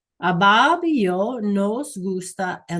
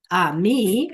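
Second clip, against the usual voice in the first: "A mí" said firmly and a bit louder; emphasized A mí; 4 dB louder than usual. Shown as a demonstration. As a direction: point to yourself with "A mí". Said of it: "I'm emphasizing".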